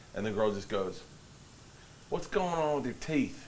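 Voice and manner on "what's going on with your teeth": wrong, poorly done put-on Brooklyn accent. Retelling a girl on the beach asking about his teeth, wrong put-on accent. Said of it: "I'm doing the wrong accent".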